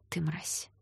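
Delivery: soft hissed insult; contemptuous whisper. Acted. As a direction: breathe the insult in disgust.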